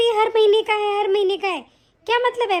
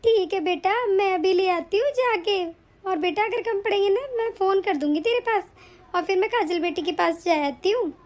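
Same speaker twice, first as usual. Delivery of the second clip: put-on a lowered older woman's voice; mother asks her son, lightly lowered voice; lightly voiced mother-in-law; 3 semitones lower than usual.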